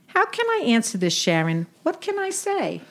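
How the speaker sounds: put-on old Brooklyn aunt with Yiddish lilt; yiddish accent. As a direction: play a wisecracking Jewish aunt. Sadie role in comedy skit.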